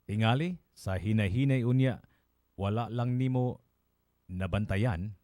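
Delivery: measured Binisaya verse reading, pausing between phrases; solemn poetry reading with spaced phrases; poem recitation. Acted. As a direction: recite it line by line, deliberately. Reads the translated poem.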